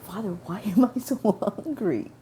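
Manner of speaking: laughing through the question; asking Father with a giggle. Retold or imitated. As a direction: crack up mid-sentence in disbelief. Laughing while asking God.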